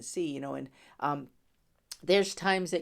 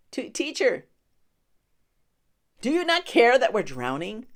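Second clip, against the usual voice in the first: mock plea; 5 semitones higher, 7 dB louder than usual. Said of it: "the question they just said".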